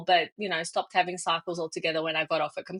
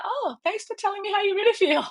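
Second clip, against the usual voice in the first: mock sarcastic thanks; 13 semitones higher than usual. Sarcastic reply to boss.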